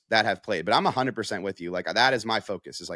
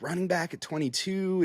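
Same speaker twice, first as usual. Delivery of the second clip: higher, scoffing fan voice; mock fan complaint; 8 semitones higher, 3 dB quieter than usual. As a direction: mimic a grumbling fan, pitched up. Mocking fans' complaint.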